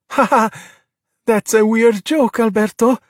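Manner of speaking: high, forced ha-ha and forced cheer; fake laugh. A narrator's reading. Luca covers for Alberto's slip, fake laughing. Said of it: "erupting in a fake laugh".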